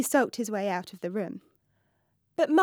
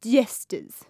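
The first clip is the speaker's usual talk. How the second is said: spat out; 3 dB louder than usual. Acted. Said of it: "he spat".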